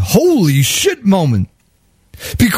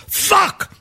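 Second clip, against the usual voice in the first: frustrated curse; 11 semitones higher, 3 dB quieter than usual. Retold or imitated. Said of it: "now he's going".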